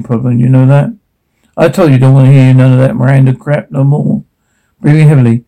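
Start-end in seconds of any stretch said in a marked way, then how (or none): 1.6-4.2 menacing father. Acted. Abusive father berating his daughter.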